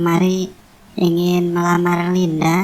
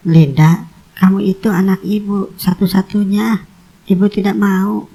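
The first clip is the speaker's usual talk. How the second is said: stern call. Acted. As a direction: pull her daughter up short. Mother rebukes her daughter.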